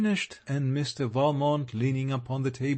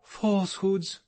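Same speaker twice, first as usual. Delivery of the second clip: "Falsehoods" thrown back higher, indignant and firm; forcible tone; 5 semitones higher than usual. A narrator's reading. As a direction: repeat "Falsehoods" back at him, offended. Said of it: "she repeated in a forcible tone".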